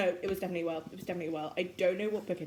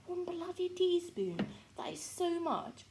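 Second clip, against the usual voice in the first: mock horror; 10 semitones higher, slower than usual. Real, not acted. Mock horror at spice amount.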